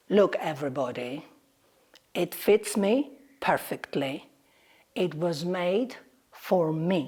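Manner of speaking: a calm lion claiming his crown; lion's low claim. Acted. Lion to the animals, claiming the crown, low and calm.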